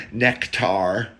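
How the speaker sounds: "nectar" said as two words, neck and tar; neck-tar pronunciation. Shown as a demonstration. Comedian showing how he says it, "nectar" as "neck-tar". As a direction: give "nectar" a full "tar" at the end. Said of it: "think of your neck".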